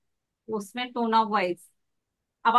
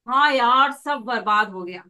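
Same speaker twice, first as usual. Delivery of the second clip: upbeat delivery of gloomy words; jaunty, energetic complaint; cheerful bad news; 5 dB louder than usual. Shown as a demonstration. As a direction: start loud and lively, as if smiling. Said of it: "चेहरे पे भी हंसी है".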